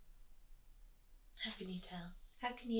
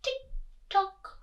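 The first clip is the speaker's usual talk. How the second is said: crisp, spaced tick and tock; measured clockwork syllables; ticking clock; 12 semitones higher than usual. A narrator's reading. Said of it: "went the living room clock".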